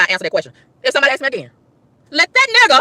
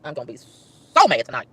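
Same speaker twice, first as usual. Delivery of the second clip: slow, low-pitched grumble; brooding, drawn-out low mutter of anger; low seething; 12 semitones lower, 4 dB quieter than usual. Real, not acted. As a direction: sink down low and stew on it slowly. Same line repeated, sinking to a grumble.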